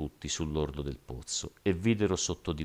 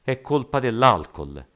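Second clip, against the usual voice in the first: loud, raised-pitch cry; shouted excuse; 7 semitones higher, 7 dB louder than usual. A narrator's reading. Another rioter blaming the alcohol, shouting. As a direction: shout the blame away from yourself. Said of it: "gridò un altro".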